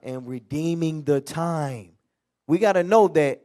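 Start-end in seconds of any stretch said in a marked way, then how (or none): 0.0-1.9 slow emphatic echo of the phrase; preacher repeating the answer slowly; slow, drawn-out repeat. Shown as a demonstration. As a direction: stretch it out, weighing each word. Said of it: "redeeming what?".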